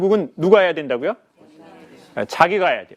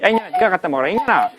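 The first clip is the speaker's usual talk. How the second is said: foul mouthed granny; faster than usual. Retold or imitated. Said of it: "욕쟁이 할머니는".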